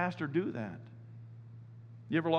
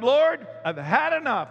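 high, loud and slow, fed up; fed-up cry; 8 semitones higher, 6 dB louder than usual. Retold or imitated. Pastor telling the Lord he's had enough, loud and slow. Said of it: "It's like".

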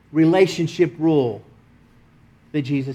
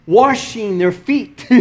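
slow Texas accent on "washing"; 5 semitones higher, 3 dB louder, much slower than usual. Real, not acted. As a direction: let "washing" come out with a Texan R. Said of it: "that Texas accent comes out".

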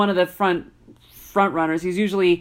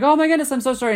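higher-pitched retold apology; imitated frantic apology; 6 semitones higher, much faster than usual. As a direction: play a child apologizing in a rush of relief. Retold child apologizing to his mother.

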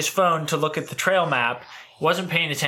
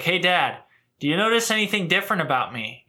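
imitating dad; 4 semitones higher, faster than usual. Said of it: "whenever you do your dad".

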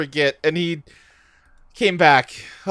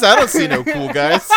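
dopey voice; 10 semitones higher, 5 dB louder than usual. Acted. Mock Goku answer.

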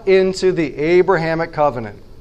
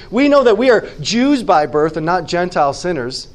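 sarcastic tone. Retold or imitated. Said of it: "There's a heavy, thick, uh, sarcastic tone there".

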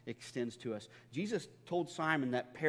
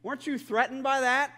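higher, louder teasing indignation; mock offended; 10 semitones higher, 6 dB louder than usual. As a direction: ham up the wounded pride to his wife. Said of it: "I said".

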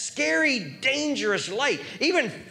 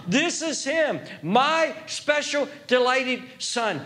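voice of God; 3 semitones higher than usual. Acted. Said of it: "Here he's describing a delight".

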